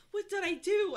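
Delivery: high indignant question; surprised. Acted. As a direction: ask it high and loud. Narrator character's question read.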